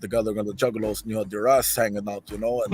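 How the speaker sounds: low, halting Russian bandmate impression; Scum. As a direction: impersonate a Russian friend with a grievance. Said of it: "Gino had Scum on speaker. He's like".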